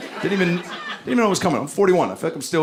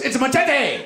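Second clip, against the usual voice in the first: high, far-off holler; mock high-voiced stranger; stranger calling back; 12 semitones higher than usual. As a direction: call it out high from up a tree. Stranger in tree calls back.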